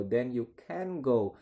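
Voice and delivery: "can" pressed, slow and even; stress on can. Shown as a demonstration. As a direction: push the word "can" to show doubt was wrong. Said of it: "dia menekan di modalnya".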